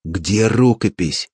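slow, stern demand; strict question. A narrator's reading. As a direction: ask it sternly, drawing the word out. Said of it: "строго спросил".

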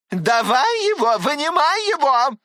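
high, loud demanding scold; в бешенстве требуя; raging. Acted. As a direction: storm at him for the letter. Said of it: "буянила Татьяна Павловна".

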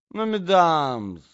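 high, loud, drawn-out protest; exclaiming prince. A narrator's reading. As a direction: cry out to the quarrelling ladies. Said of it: "закричал князь".

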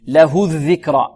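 slow له الذكرى, true u on له; correct damma. Shown as a demonstration. Teacher giving the right version, clear u in له. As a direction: round the هـ of له to a full oo. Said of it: "ضما صحيحا".

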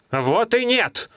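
high, drawn-out protest; exclaiming. Acted. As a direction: cry out in denial. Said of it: "воскликнул Гольга".

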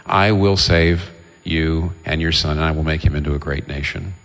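lightly voiced divine promise, taking its time; solemn promise. The Lord promising Hagar to save her son, solemn.

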